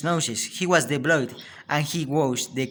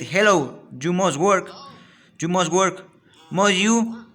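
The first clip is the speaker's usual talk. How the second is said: teasing Ben; 5 semitones higher, 4 dB louder than usual. A narrator's reading. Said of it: "Ben said".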